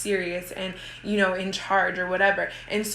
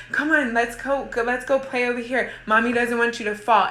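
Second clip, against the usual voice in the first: higher, gentle playful invitation; playful coaxing; 4 semitones higher than usual. Shown as a demonstration. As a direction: coax the child down like it's a game. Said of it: "Playfully grab her off the stairs and say".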